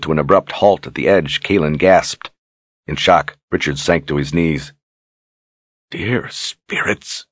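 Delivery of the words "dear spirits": slow, stunned whisper. Acted. Richard sees the burning city below, shocked whisper. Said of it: "he whispered".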